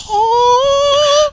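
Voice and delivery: 높고 큰 놀란 "Oh."; surprised cry. Retold or imitated. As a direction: gasp it out, way up high. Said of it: "Shifuyu's like".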